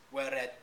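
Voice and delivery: "weared" with the final E sounded as "-uh"; extra syllable. Shown as a demonstration. Lecturer showing what breaks the rhythm, "weared" with an added final syllable. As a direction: say "weared" slowly as "wear-ed-uh". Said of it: "with an extra syllable".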